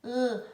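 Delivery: L as a long held "lll"; isolated L sound. Shown as a demonstration. Teacher introducing the letter L, its sound held long. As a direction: sustain the tongue-tip "lll", no letter name. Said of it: "a língua vai pro céu da boca".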